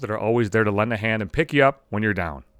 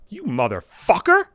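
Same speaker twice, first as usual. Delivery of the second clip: laughing insult; 4 semitones higher, slower than usual. Retold or imitated. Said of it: "She's laughing hysterically".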